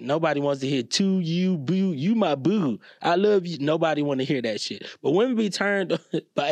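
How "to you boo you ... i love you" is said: mock Baltimore accent, drawn-out "boo". Comic mocking a Baltimore sweet-talker nobody wants to hear, mock Baltimore accent. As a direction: put on a teasing Baltimore accent. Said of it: "Never a Baltimore accident, accent".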